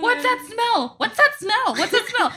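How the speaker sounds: high-pitched, repeated calling; mimicked chorus of nosy kids; imitating kids calling out. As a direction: pipe up high, one kid after another. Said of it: "I heard all three of them".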